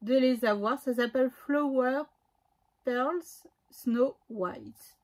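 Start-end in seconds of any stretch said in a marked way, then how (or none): 1.3-5.0 English words in a French speaker's accent; carefully spaced words in an attempted English accent. Real, not acted. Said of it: "mon bel accent anglais".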